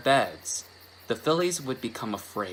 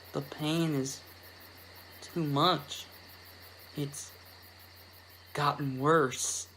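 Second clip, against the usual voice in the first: higher but faint and strained; weak pained filly; 3 semitones higher, 8 dB quieter, slower than usual. Acted. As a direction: barely get the words out in pain. Apple Bloom weak.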